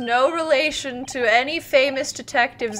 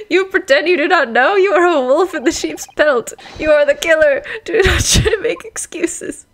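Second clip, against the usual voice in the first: loud, raised accusation; accusing; 3 semitones higher, 5 dB louder than usual. Acted. Sailor accusing the suspect of being the killer, loud and accusing. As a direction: confront them forcefully, voice up.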